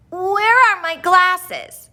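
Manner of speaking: asking in alarm, slow. A narrator's reading. Waking groundhog asks for his lost glasses, alarmed.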